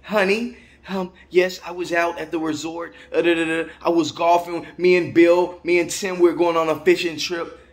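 breezily lie to the wife at home; lightly voiced tourist calling his wife; white husband on the phone. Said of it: "He don't even care about that phone".

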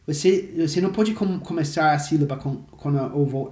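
usual speaking voice

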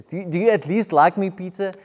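plead, ask gently but urgently; pleading question. Retold or imitated. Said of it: "the third question actually says".

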